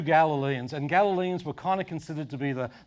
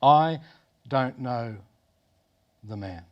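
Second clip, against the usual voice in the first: I hit loud, then DON'T KNOW THE MAN dropping away; emphatic oath, broken by pauses and sinking low at MAN; sworn denial; 3 semitones lower, 4 dB louder, slower than usual. Acted. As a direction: swear it in separate, weighted chunks, pausing after I. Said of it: "he swore to them".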